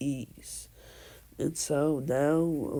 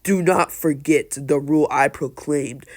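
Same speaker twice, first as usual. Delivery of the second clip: louder, emphatic proclamation; mild retold yell; 6 dB louder than usual. Lord Third reminds the council of his rule, mild yell. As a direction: lay down the law, moderately loud. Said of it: "and Lord Third yells".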